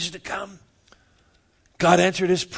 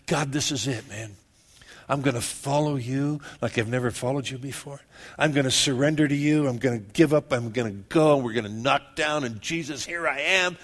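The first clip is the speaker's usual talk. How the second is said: low-pitched, earnest prayer of surrender; heartfelt vow; 4 semitones lower than usual. Acted. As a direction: pledge yourself to God, pitched down. Acts out heartfelt vow to God.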